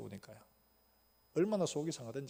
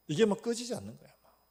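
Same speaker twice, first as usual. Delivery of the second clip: rising anger; 6 semitones higher, 5 dB louder than usual. Retold or imitated. Describing burning anger.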